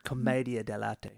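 commedia dell'arte with MAY and sounded final E; Rosa's pronunciation. Shown as a demonstration. Cohost settling on Rosa's version, commedia dell'arte with MAY. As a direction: say commedia dell'arte as kuh-MAY-dia dell-AR-tay. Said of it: "go with what Rosa said".

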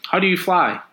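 put-on high, curious child's voice; little girl. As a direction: ask it like an eager little girl. Little girl asks Superman.

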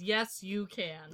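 slow, lightly deepened hype voice; a hint of a booming encourager; deep meaty voice. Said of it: "A deep, meaty voice that says".

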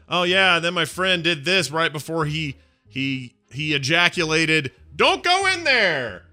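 high, excited storybook telling rising to a cry; high storytelling voice climbing to a shrill warning; Harry Potter style. Pretend. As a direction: tell it like a breathless kid in a wizard book, ending on a high yell. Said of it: "Harry Potter style".

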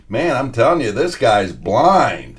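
mildly needling, drawn out on the last word; baiting. Retold or imitated. Courtside heckler complains to his colleague about the referee, baiting. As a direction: lightly taunt for someone to overhear. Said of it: "baiting this guy".

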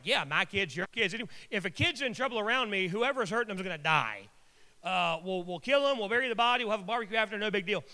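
imitating a no-nonsense Southern mother; mock-tough, rising in pitch midway; fiercely protective. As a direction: rattle off the threat like it's routine. Imitating fierce, matter-of-fact Southern women.

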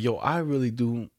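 slow, laughing fake-polite complaint letter; mock polite complaint. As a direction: read it out slow and sarcastic. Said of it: "just write a complaint, like".

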